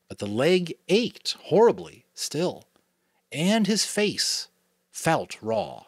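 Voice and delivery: steady read-aloud storytelling voice; story narration. A narrator's reading. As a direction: tell the chapter to the class, calmly. Reads novel chapter aloud.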